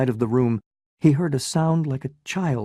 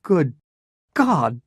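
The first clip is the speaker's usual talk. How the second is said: crying out; 3 semitones higher, 3 dB louder than usual. Acted. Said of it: "he cried".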